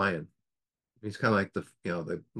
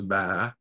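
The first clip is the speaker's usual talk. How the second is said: long drawn-out bah; imitated sheep bleat. The sheep lion answers the old lion, imitated bleat. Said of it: "just goes".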